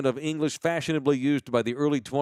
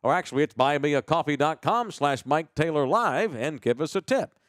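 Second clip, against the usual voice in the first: fake broadcaster guy. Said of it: "fake broadcaster guy".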